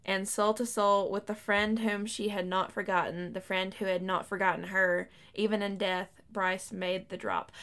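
slow, measured reading of a book passage; reading aloud. Acted. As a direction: read it out like a storyteller, unhurried.

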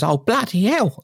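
high coarse "bloody hell"; coarse exclamation. Retold or imitated. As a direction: drop into a rough outburst. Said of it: "But then goes".

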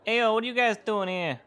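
loud, high call across the room; excited greeting. Acted. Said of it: "It's like".

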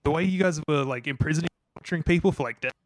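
mic cutting out, garbled words; breaking up like a bad phone line; scrambled voice. Real, not acted. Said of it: "I think your mic is cutting out a little bit".

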